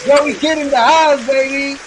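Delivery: high, loud, slow shout-out; big stretched announcer intro for the guest; hype announcer call. Acted. Hyping the guest on the show.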